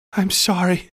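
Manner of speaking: tearful plea pitched high; sobbed apology. A narrator's reading. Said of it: "I sobbed at the apparition".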